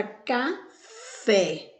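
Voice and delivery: "café" split, strong final FÉ; stressed last syllable. Shown as a demonstration. Teacher giving another example, "café" with stressed final FÉ. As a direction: separate "café" into CA and a firm FÉ. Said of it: "com mais força".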